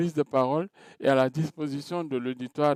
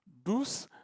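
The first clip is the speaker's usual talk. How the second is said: softer, higher demo of a gentle voice; 10 semitones higher, 6 dB quieter than usual. Shown as a demonstration. Teacher listing voice types for students, softly. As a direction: soften the word right down. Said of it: "vous avez des gens qui ont une voix".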